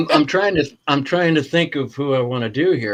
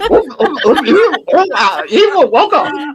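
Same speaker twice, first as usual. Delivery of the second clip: high spooky voice; 8 semitones higher than usual. Retold or imitated. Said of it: "She's like".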